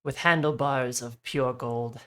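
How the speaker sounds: slow, solemn mythic telling; grand storyteller. Acted. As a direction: proclaim it like scripture. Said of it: "The way you said handlebars was just too good".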